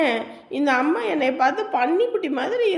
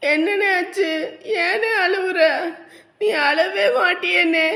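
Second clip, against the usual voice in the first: tearful worry; 4 semitones higher, slower than usual. Acted. Sister sees brother crying.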